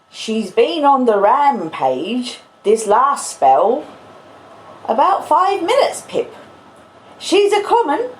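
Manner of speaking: put-on laboured character accent, urgent warning to a child; Joe. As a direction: put on a broad character accent, pitch swooping up. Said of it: "I can't possibly do the accent that long".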